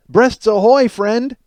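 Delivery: a jokey loud ahoy to the crowd; mock pirate hail. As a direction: bellow it like a pirate captain.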